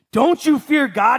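slow, firm rebuke; rebuking. Retold or imitated. Criminal rebuking the other thief, slow and firm. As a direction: scold him, each word weighed. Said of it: "the other criminal rebuked him".

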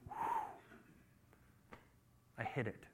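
exhaled whew, then low and soft; private relief. Acted. David thinking he got away with it, quiet relief. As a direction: breathe out, then say it under your breath.

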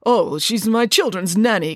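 slow, reluctant confession; father admitting the pig is the nanny, slow; sheepish confession. Acted. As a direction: own up slowly. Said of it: "confessed Mister Green".

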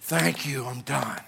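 soft, quick mock list of demands; rattled-off prayer list. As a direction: tick through requests without care. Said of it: "our prayer list is like".

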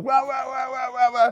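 high garbled radio squawk; radio chatter imitation.

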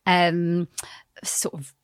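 breathy wry whisper with a laugh; hushed tongue-in-cheek remark; whispered aside. Real, not acted. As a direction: drop to a conspiratorial whisper. Wry aside about training tools.

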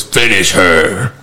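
deep, very slow announcer boom; Mortal Kombat announcer. Retold or imitated. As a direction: drag it out like a game announcer. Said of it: "all he heard in his head was".

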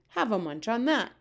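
shouting. Acted. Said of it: "he shouted".

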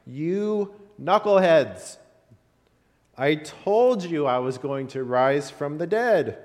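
mock-frustrated teacher scolding his class; a touch of hammed-up annoyance. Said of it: "frustrated and angry".

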